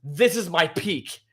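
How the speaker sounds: Luffy declaring his peak, slow and rising; dramatic hero line. Acted. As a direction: build it like a power-up reveal. Voicing Luffy's transformation line.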